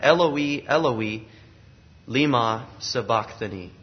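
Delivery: "Eloi, Eloi, lema sabachthani" sounded out in Aramaic; original Aramaic pronunciation. Shown as a demonstration. Preacher quoting Jesus's cry so listeners hear Elijah, "Eloi" pronounced EL-oh-ee. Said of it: "say it in its original pronunciation".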